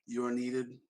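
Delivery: level, quiet machine voice; robot voice. Acted. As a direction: stay cool and mechanical. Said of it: "talk like a robot".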